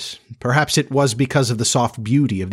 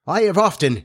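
higher, lilting sidekick voice; Smee, timid curiosity; 8 semitones higher than usual. Acted.

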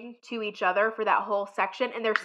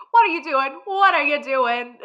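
mock incredulous; 5 semitones higher, 4 dB louder than usual. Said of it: "He's like".

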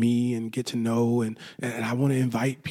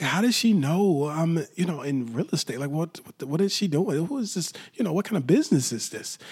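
higher, puzzled rush of questions; baffled; 4 semitones higher than usual. Retold or imitated. Customer confused by a catering flyer, baffled. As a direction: wonder aloud what on earth she means. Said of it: "so confused".

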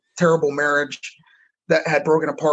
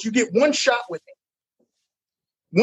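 slow and heavy, each word a warning; slow stern ultimatum; 5 semitones higher, much slower than usual. Retold or imitated. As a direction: drag out "one shot" slowly and firmly. Coach lays down the final ultimatum.

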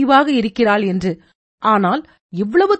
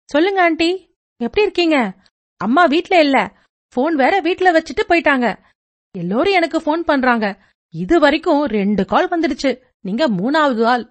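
higher, quick chatty schoolgirl voice; a bubbly teenager rattling on over the phone; chirpy teen girl; 3 semitones higher than usual. Acted. Teen girl chatting to her friend's mother, higher and quick.

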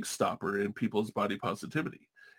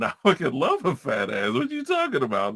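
dude voice. Retold or imitated. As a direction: hype it up like a guy cheering. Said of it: "a hundred other dudes going".

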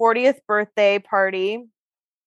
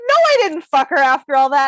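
louder, firm no; mild mock indignation at the question; indignant denial; 3 semitones higher, 5 dB louder than usual. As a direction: push back, offended. His indignant denial, retold.

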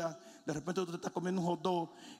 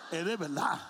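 put-on childish whine; whining child; 3 semitones lower than usual. Child insists to his father it is real, whining. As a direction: plead like a teary kid. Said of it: "tú decías".

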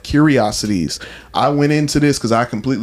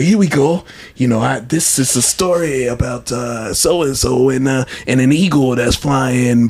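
attempted Crypt Keeper accent. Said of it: "I can't do the accent".

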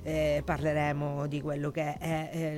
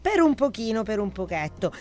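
husky voice; 5 semitones higher, 5 dB louder than usual. Real, not acted. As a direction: speak through a tired, husky throat. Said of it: "scusate la voce, è un po' bassa".

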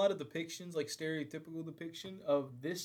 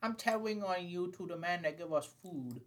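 put-on childish threat. Mock tattle, escalating.

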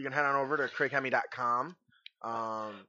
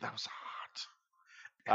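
whisper; 7 semitones lower, 12 dB quieter, much slower than usual. Real, not acted. After the Carolina Reaper story.

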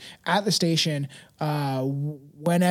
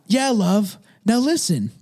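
grandpa voice; 4 semitones higher, 3 dB louder than usual. Acted. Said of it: "how can I do a grandpa voice?".

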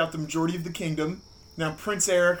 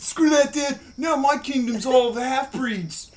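defiant son; 6 semitones higher, 4 dB louder, slower than usual. Acted. Son defies the father.

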